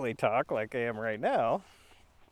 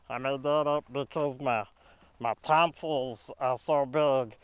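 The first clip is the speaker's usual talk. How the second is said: funny voice. Shown as a demonstration. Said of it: "This is my funny voice".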